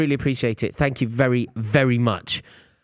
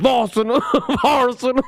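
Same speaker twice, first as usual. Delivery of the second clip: mimicking laughing; 4 dB louder than usual. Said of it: "I was like".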